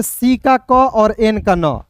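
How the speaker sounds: very slow, each sound set apart; slow letter sounds. Shown as a demonstration. Teacher breaking down can for students, very slow. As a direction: spell out "सी का क" and "एन का न" slowly. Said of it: "सी ए एन को क्या पढ़ेंगे".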